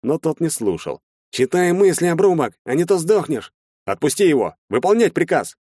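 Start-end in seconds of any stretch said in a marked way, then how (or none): 1.3-3.5 high, loud menacing threat; threatening. Acted. Shtalin threatens the mind reader to scare him, menacing. 3.9-5.6 loud, high commanding shout; stern command. Acted. Officer orders Shtalin to release the private, commanding.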